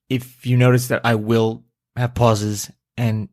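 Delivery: slow speech with pauses between phrases; slow conversational. Real, not acted. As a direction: take it slowly, pausing as you go. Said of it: "almost like slow conversational".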